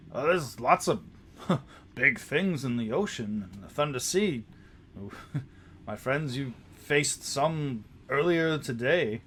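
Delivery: put-on chuckling, dismissive old sea hand; amused captain. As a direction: laughs off the player's worry. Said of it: "And Captain Biam says".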